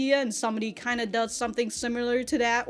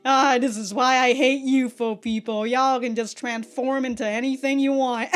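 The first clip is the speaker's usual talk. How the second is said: mock jealous grumble; 2 semitones higher, 6 dB louder than usual. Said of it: "So Mori is just like".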